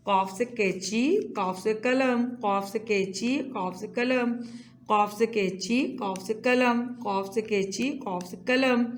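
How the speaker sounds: rhythmic chant, each line rising then falling; sing-song classroom drill. Shown as a demonstration. Teacher chanting letter rhymes to young students, sing-song. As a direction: lead the class through a call-and-repeat rhyme.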